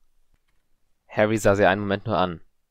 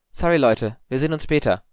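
high, louder, breezy call; casual parting; 6 semitones higher, 6 dB louder than usual. A narrator's reading. Harry excusing himself to classmates, casual and louder. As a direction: toss it over to friends. Harry calls to his friends.

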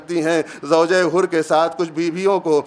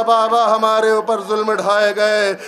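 lamenting; 4 semitones higher than usual. Acted. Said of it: "بین کرنا شروع کر دیا".

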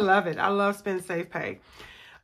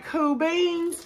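silly voice; 9 semitones higher than usual. Pretend. Catchphrase in put-on voice.

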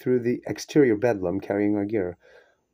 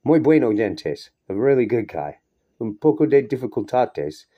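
put-on Mexican accent; 5 dB louder than usual. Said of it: "low-voiced".

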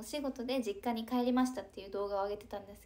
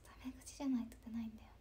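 whispered aside; 8 dB quieter, faster than usual. Shown as a demonstration. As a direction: repeat "タメ口じゃないと出ないんだよね" in a soft, quick whisper. Repeats line as an aside.

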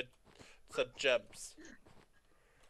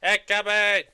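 calling out; 6 dB louder than usual. Real, not acted. Calling a teammate in.

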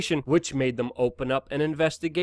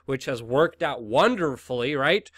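sarcastic; 2 semitones lower than usual. Real, not acted. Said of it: "Being sarcastic here".

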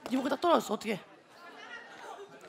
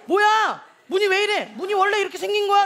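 mock puzzled onlookers, raised voice; 의아해하는 사람들; 4 semitones higher, 3 dB louder than usual. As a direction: act out baffled online commenters. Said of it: "그 사람들이". (사진 보고 놀라 따지는 사람들 흉내)

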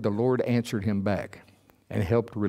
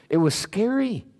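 scared; 12 semitones higher than usual. Retold or imitated. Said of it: "add a little inflection".

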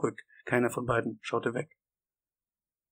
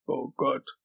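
mildly tearful moan; a touch of a sob in dismay; sobbing. Acted. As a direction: whimper it, lightly acted. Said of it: "schluchzte Wisconski".

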